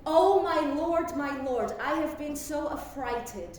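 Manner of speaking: lightly played frightened Ophelia; tragic heroine. Shown as a demonstration. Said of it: "Let me say it first and then you repeat".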